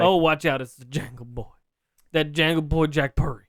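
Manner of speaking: loud mock New Orleans warning; New Orleans accent. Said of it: "you're doing an accent".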